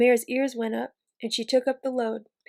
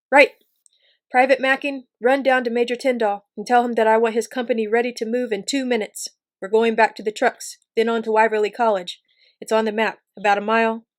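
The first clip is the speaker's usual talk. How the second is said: loud officer's barked commands; officer shouting orders to his private, loud and commanding; 9 dB louder than usual. Acted. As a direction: call the orders across the hill like a major. Officer barking orders to troops.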